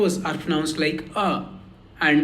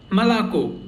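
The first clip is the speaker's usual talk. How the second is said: "Malako" with weak first vowels, full final O; stress on last O. Shown as a demonstration. Teacher introducing the word for milk, final O stressed in "Malako". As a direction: lean on the last syllable of "Malako". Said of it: "only last O is stressed".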